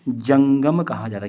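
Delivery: slow, emphatic जंगम; teacher emphasis. Shown as a demonstration. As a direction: lean on जंगम like a teacher drilling the term. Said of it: "क्या कहा जाता है?".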